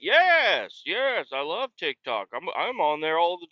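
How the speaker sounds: put-on high, eager old-timer; a hint of the squeaky geezer; old man voice. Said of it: "He's like".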